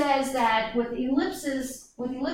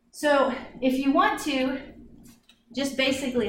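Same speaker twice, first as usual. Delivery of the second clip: out of breath, puffing between words; breathless after walking the orbit; 3 semitones higher than usual. Real, not acted. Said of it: "I'm out of breath".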